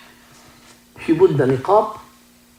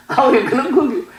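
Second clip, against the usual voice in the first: laughing; 11 semitones higher than usual. Retold or imitated. Doctor's retort, teller laughing.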